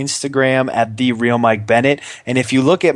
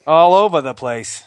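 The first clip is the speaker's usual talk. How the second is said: Boston accent; 5 semitones higher than usual. Shown as a demonstration. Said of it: "quite the accent you got there".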